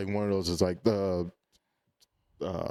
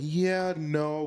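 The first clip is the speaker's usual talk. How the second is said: quoting friend; 7 semitones higher than usual. Retold or imitated. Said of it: "he was like".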